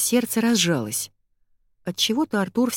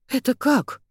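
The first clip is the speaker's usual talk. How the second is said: bewildered; 7 semitones higher than usual. A narrator's reading. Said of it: "растерялась я".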